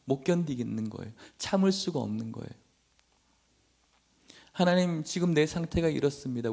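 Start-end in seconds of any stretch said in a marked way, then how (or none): 4.5-6.5 acted plea to God, opening high; mildly anguished lament; aggrieved prayer. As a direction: appeal to God in mock distress. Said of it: "너무너무 억울하고 힘든 거예요".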